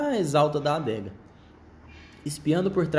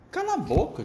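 high sharp snap; fox voice; 14 semitones higher than usual. Acted. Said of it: "disse seu raposo".

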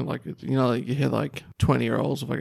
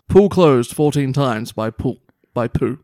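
headline reading; 6 dB louder, slower than usual. Acted. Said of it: "The Otago Daily Times reports".

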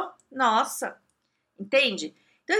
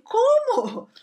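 much higher, louder, stunned; stunned stammer; 14 semitones higher, 6 dB louder than usual. Retold or imitated. To her friend, hearing the story, shocked blurt. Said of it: "ó, gaguejando".

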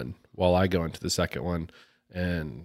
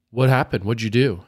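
super pissed; 2 semitones higher, 5 dB louder than usual. Retold or imitated. Angry driver confronting the other after a crash, pissed off. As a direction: snap the questions, imitating an angry driver. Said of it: "super pissed, face is red".

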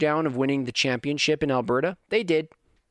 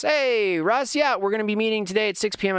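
voicing the coach; 7 semitones higher than usual.

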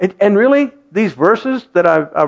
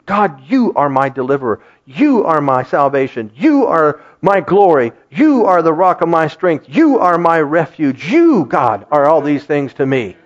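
prayerful declaration; 2 semitones lower than usual. Shown as a demonstration. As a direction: declare each line as your own. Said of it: "read them like they're coming from you".

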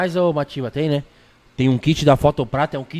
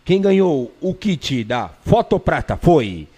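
big reveal announcement; 3 semitones higher, much slower than usual. Real, not acted. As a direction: stretch out the winner's name. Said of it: "acabou de acabar com a minha voz".

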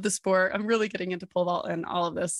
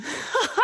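high giggle; 13 semitones higher than usual. Real, not acted. Laughing at own beginner status.

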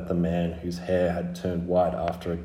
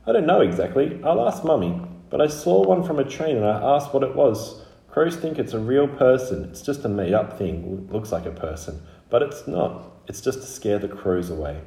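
put-on high child's voice, chatty explanation; little girl explaining what she knows; young Scarlet explaining; 6 semitones higher than usual.

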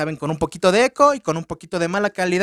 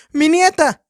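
mock cry of grandma; 7 semitones higher, 6 dB louder, slower than usual. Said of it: "sale una señora que dice".

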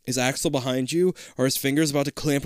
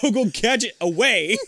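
Inspector Gadget; 9 semitones higher than usual. Pretend. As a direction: belt the cartoon gadget call.

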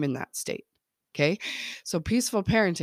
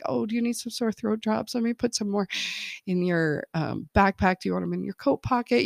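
put-on sweet, higher caring mom to her kids; a lightly played tender mom offering throat drops; 4 semitones higher than usual. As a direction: coo it like a doting mother. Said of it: "super kind and tender".

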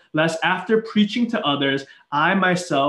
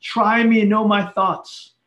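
screaming it out; 3 semitones higher, slower than usual. Shown as a demonstration. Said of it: "He's, like, screaming this out loud".

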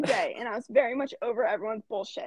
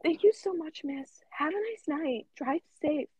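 higher-pitched polite goodbye; imitated politeness; 5 semitones higher, slower than usual. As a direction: mimic a polite customer signing off. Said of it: "being all polite".

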